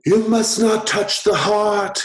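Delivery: high, slow, loud wail of warning; drawn-out, high-pitched forbidding cry. Acted. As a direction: cry it out like a chorus of awakened heads. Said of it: "they cry out in unison".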